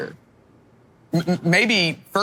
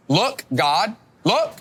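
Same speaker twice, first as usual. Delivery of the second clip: mock yell at God; 5 semitones higher, slower than usual. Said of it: "It's as if David is yelling at God".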